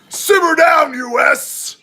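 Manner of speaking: loud, high shouted dad scolding; stern dad voice. Acted. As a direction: yell it like a dad silencing the whole country. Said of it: "Dad voice".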